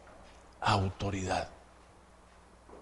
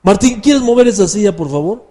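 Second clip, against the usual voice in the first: higher-pitched courteous asking; polite request; 6 semitones higher than usual. Acted. Preacher acting out asking Martín to move a chair, politely. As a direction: ask nicely, easing off at the end.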